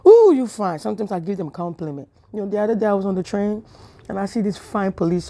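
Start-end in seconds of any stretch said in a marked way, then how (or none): 0.1-0.8 high, slow, breathless ogling; lusty mock swoon, higher; swooning admiration. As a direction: drool over him out loud.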